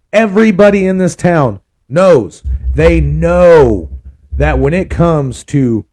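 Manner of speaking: slow, drawn-out ad pitch; sultry narrator. Shown as a demonstration. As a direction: lean into a smooth commercial voice. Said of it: "I'm doing a more serious and sultry voice".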